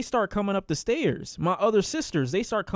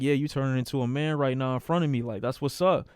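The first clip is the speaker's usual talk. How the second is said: approving brother; 5 semitones lower than usual. Retold or imitated. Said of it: "giving me the look of approval".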